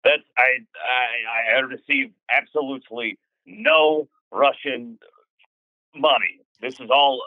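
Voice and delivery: put-on Scottish brogue as a dodgy salesman; Scottish accent. Con man Gregor insisting to the host he's Scottish, in a Scottish accent. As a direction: lay on a thick Scottish accent. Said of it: "you're sounding like you've been a bit influenced".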